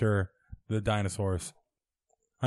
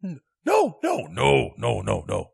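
Monty Python denial in English; lightly voiced English refusal; a hint of an English accent. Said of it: "Monty Python fun size today".

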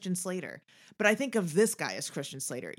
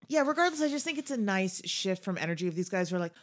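ordinary delivery

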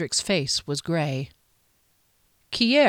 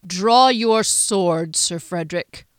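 stern command; 4 dB louder, slower than usual. Acted. Duke commands knight.

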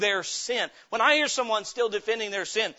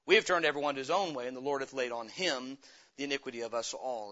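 solemn, hushed reading of the King James text; scripture reading; 2 semitones lower than usual. Acted. Preacher reads Isaiah fifty-three aloud.

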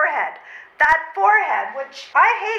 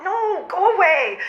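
laughing refusal; 2 semitones higher than usual. Acted. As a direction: go away through a laugh. Flustered refusal.

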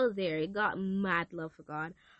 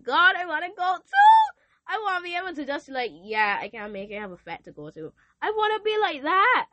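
loud, high whining to God; high pleading whine; whiny plea; 9 semitones higher, 10 dB louder than usual. Retold or imitated. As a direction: beg like a teen wanting to go out.

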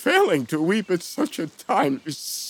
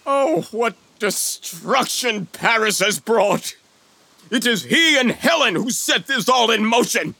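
anguished outcry; 8 semitones higher, 4 dB louder than usual. Acted. King cursing Paris and Helen.

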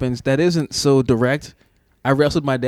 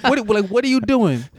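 incredulous; 8 semitones higher than usual. Retold or imitated. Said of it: "I'm sitting here like".

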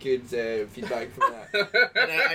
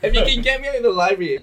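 excited, fast; 8 semitones higher, 6 dB louder, faster than usual. Real, not acted. Joking about judge role.

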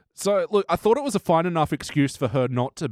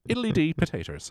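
mock Irish accent; 4 semitones higher, 3 dB quieter than usual. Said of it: "Just like I can do an Irish accent".

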